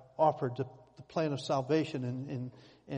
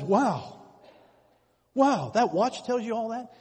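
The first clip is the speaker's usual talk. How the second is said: higher, louder amazed wow; 6 semitones higher, 7 dB louder, slower than usual. Retold or imitated. Stranger marvels at the watch to the owner, amazed. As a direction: gape at the watch out loud.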